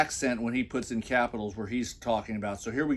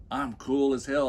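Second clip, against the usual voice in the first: ordinary talk, nothing marked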